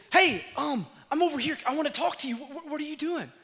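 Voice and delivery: high, hopeful calling voice; God trying to get attention; lightly voiced calling father. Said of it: "It says".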